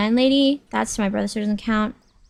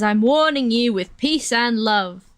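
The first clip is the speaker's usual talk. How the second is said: impression of a drummer; slower than usual. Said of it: "he just says".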